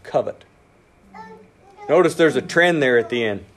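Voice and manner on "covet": slow, low, weighty scripture; slow solemn quote. Shown as a demonstration. Preacher quoting the commandment to the church, slow and solemn. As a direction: draw out each word like a commandment. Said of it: "That's why it says".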